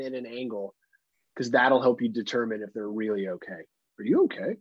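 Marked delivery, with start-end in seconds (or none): 4.0-4.6 high-pitched, exaggerated concern; hammed-up worried question; mock concerned check. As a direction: ask it way up high, checking on someone. Acts out concerned check on choker.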